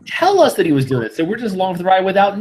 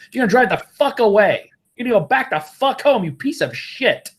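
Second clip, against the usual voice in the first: raised, heated rant, higher pitch; angry telling-off; 6 semitones higher than usual. Pretend. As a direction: chew him out like you should have on day one. Imagined rant telling him off.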